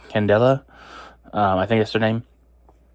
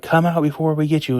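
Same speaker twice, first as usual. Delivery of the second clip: threatening call; 7 semitones higher than usual. Retold or imitated. Riders threatening the theater.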